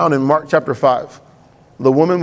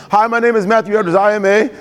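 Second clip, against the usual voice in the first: mock AA confession; 3 semitones higher than usual. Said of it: "so you can say it".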